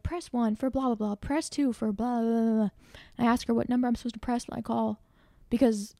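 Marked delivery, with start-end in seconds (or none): 0.0-2.7 robotic menu recording; automated phone voice. Retold or imitated. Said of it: "it's an automated voice".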